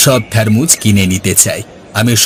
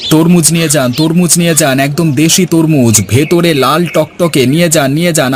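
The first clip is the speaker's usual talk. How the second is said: vendor calling out; 4 semitones higher than usual. Acted. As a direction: hawk the watermelons to passers-by.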